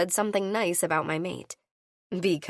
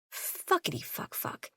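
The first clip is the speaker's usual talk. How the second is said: breathless whispered swearing under the breath; whispered curse; 11 semitones higher, 8 dB quieter than usual. Acted. Heroine cursing to herself as trouble dawns, whispered. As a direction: hiss the curse to yourself, barely voiced.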